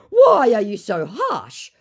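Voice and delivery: high, slow whining complaint; mock the scammer's hurt tone; imitating a whiny scammer; whiny mock question. Scammer's whine.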